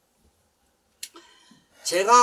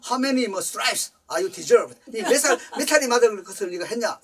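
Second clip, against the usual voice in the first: stern questioning; 4 semitones higher, 5 dB louder, slower than usual. Retold or imitated. Father interrogating son.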